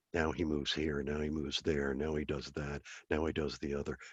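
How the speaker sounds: very soft, hushed golf announcer murmur. Retelling how the institute president mocked the description program, in a golf announcer voice. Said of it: "you want to have a golf announcer voice".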